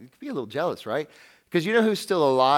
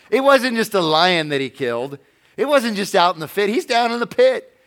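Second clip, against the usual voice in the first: louder and higher, building; rising emphatic; 6 semitones higher, 8 dB louder than usual. Real, not acted. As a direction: build it up with excitement.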